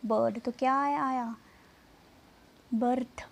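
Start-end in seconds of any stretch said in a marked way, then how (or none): 2.7-3.2 बर्थ with an "uh" vowel before the r; uh sound demo. Shown as a demonstration. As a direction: say बर्थ alone as "burth". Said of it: "अ की sound आई ना". (बर्थ में अ की ध्वनि)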